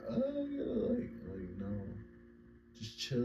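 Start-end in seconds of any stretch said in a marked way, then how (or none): 0.1-1.1 spaced-out oh yeah. Retold or imitated. Imitating someone high, unconscious.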